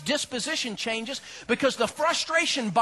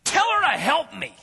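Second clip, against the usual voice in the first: frustrated complaint; 6 semitones higher, 4 dB louder than usual. Retold or imitated. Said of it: "She says".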